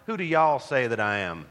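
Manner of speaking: mild Southern accent, y'all stretched; Southern dialect. Shown as a demonstration. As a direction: say it like a Southern preacher. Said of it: "put it in good Southern dialect".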